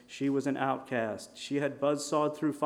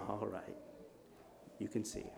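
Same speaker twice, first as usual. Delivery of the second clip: much softer, low and calm; soft healing words; 4 semitones lower, 14 dB quieter than usual. Acted. Jesus healing the blind man, quiet and calm. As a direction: grant it gently, almost murmured.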